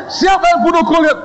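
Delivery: high loud demand; booming question. Retold or imitated. Founder pressing the student again, loud and high.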